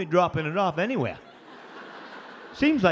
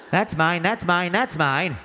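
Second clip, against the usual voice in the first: mock possessive mutter; 2 semitones lower, slower than usual. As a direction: lay claim to each item, slowly. Guy claims items in cart.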